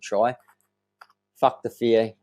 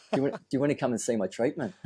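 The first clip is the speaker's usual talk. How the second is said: laughing; 4 semitones higher, faster than usual. Retold or imitated. Cheeky pickup line while laughing.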